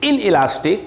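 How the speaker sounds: slow, drawn-out dictation. Real, not acted. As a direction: read it out slowly for note-takers. Teacher dictating a question to write. (धीरे-धीरे सवाल लिखवाते हुए)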